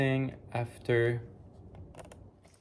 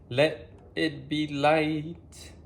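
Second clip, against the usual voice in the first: mock grand proclamation; 3 semitones higher, 4 dB louder, much slower than usual. Announcing the lamp playfully.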